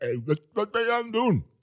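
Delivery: grumpy cross neighbour voice. Co-host plays the neighbour in a demo of their voices: angry neighbor voice. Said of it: "Ik ben de boze buurman".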